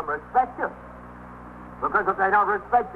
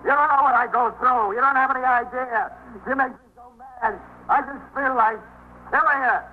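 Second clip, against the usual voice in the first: agitated rant; 6 semitones higher than usual. Acted. Disturbed husband venting to the sergeant, building anger. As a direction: work yourself up with each line. Husband ranting about his wife.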